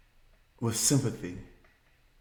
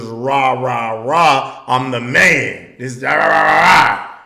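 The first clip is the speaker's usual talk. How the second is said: loud chest-thumping rah rah; mock macho bravado; 5 dB louder than usual. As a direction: puff up like the big man. Mocking his old macho talk.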